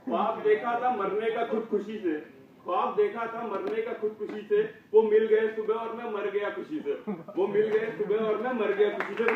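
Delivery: rhythmic shayari delivery for an audience; comic verse recitation. Acted. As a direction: deliver the couplet like a punchline.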